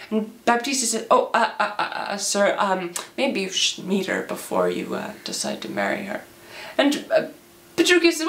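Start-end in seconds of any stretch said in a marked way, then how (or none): 1.1-6.2 halting, trailing-off caution; hesitant stammer. Acted. Baptista slowing an eager suitor, hesitant stammer. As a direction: stumble over a tactful objection. Father hesitates at hasty proposal.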